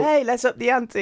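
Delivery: high, bright pep-talk energy; enthusiastic. Pretend. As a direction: pump him up with enthusiasm. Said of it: "I'm being Mister Enthusiastic".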